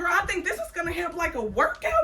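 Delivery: loud, high, laughing talk. Real, not acted. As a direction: laugh through it while bouncing. Laughing, loud while jumping.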